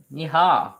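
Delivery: loud happy yeehaw at the finish; a little victory whoop. Real, not acted. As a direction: cheer it out, pleased with the work. Cheering on finishing painting section.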